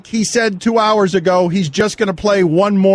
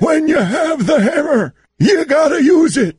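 shouting; 7 semitones higher than usual. Acted. Clip shout in ident.

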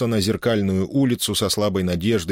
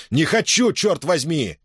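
furious cry; 8 semitones higher than usual. A narrator's reading. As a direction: yell it back in a fury. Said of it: "вскричал взбешённый Себастьян".

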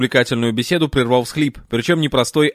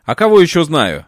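snapping back; 4 semitones higher, 5 dB louder than usual. Acted. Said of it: "огрызнулся я".

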